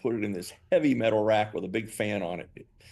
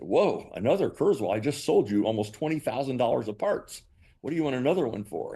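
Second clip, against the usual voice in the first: mildly incredulous retold reaction; puzzled, acted-out surprise; taken aback; 3 semitones higher than usual. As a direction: question it like you're thrown by the request. Reacting to a puzzling repeat order.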